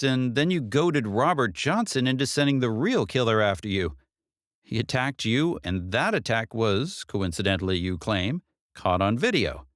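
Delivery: a lightly voiced detective, brisk case summary. Detective summarising Katie's case to her, lightly voiced. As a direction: lay out the facts like a briefing.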